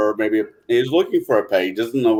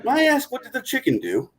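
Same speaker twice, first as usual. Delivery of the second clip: polite parakeet; 10 semitones higher, 5 dB quieter than usual. Acted. Parakeet punchline question.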